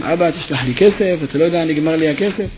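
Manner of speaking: gentle begging plea to dad; pleading. Retold or imitated. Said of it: "לשון תחנונים". (בלשון תחנונים רכה)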